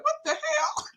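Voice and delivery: high squeal through laughter; retold shock, breaking into laughter; laughing disbelief. Friend quoting everybody's reaction, laughing disbelief.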